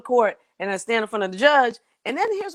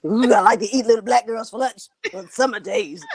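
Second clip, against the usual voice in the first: menacing dragonfly; 3 semitones higher, 3 dB louder than usual. Retold or imitated. Dragonfly voiced menacingly in story.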